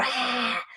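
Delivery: last air squeezed out on "ah"; further exhale demo. Shown as a demonstration. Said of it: "even a little bit more".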